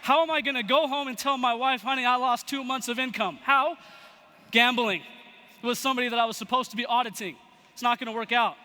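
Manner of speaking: retold exasperated ranting; beside himself. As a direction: act mildly distraught over the loss. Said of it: "he's beside himself".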